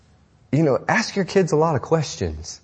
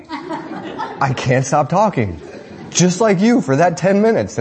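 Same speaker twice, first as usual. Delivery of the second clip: laughing tease; 5 semitones higher than usual. Retold or imitated. Daughter Hope teasing dad about coffee.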